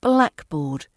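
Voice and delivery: BLACK stressed, board low and light. Shown as a demonstration. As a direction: punch the first word of blackboard. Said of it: "correct stress falls on the black".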